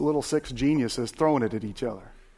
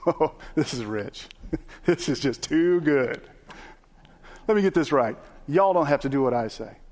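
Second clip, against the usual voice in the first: amused mocking Lord; 2 semitones higher than usual. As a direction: chuckle at them, then hand down the verdict. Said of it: "how would you think the Lord would respond?".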